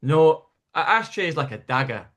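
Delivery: imitating an emphatic Scottish barman; Scottish mate's earnest warning; northern Scottish accent. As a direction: set them straight in a Scots voice. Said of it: "a bit further north Scotland".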